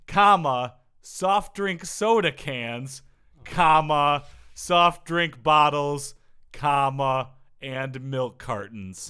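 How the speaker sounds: each "comma" punched loud, items slow; indignant list. Acted. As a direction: read the list with mounting disgust. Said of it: "the comma made me angry".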